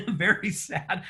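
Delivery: sighing very sad in jest; mock sad. Shown as a demonstration. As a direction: drag out very sad with fake gloom. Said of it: "It was very sad".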